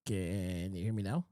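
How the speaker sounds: choppy, fading phone line; breaking up over a bad connection; call dropping out. Real, not acted. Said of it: "I can barely hear you".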